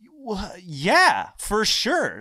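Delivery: high, loud, eager agreement; eager yes. Retold or imitated. Man accepting the ladies' offer, eagerly.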